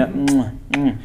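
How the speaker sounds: demonstrated hand-kissing hum; kissing sound. Shown as a demonstration. Preacher showing how to kiss mother's hand, kissing sound. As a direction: press out two short kissing hums. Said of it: "Cium gini".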